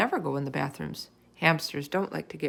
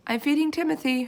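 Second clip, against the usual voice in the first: calling back; 7 semitones higher than usual. Acted. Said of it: "her mother called back".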